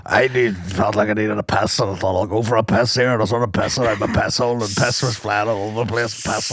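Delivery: low-pitched mimicry of a Northern Irish accent; put-on Northern Irish accent. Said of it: "What accent is that?".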